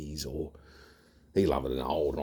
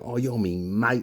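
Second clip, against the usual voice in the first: mock drunken mate; 6 semitones higher, 4 dB louder than usual. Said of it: "You know".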